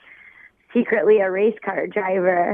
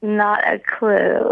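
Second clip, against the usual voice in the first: slow, sultry drawl; slower than usual. Real, not acted. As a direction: draw it out like someone just woken up.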